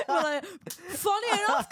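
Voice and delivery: high laughing, slow. Real, not acted. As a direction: giggle through it. Laughing reply.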